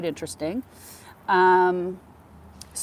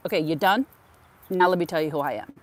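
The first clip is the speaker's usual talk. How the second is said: louder, fast pretend put-down; mock sassy comeback; 5 dB louder, faster than usual. Office worker imagines telling off the caller, mock sass. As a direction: snap back at him for fun. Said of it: "I didn't say it like that".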